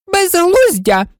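a high, loud cry of nonsense; exclaimed. Acted. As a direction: burst out in royal scorn. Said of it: "вигукнула королева".

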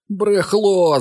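put-on loud high yell of a teen; bully yelling at Bobby; shouting boy. A narrator's reading. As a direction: shout the insult. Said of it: "закричав Гаррі".

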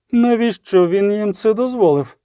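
the queen cries out at the jarl; queen's angry cry. A narrator's reading. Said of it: "крикнула королева". (розлючений крик королеви)

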